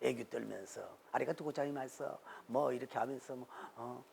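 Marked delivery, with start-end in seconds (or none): 1.1-2.0 put-on Japanese accent Korean. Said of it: "일본 사람이 흉내를 낸다고".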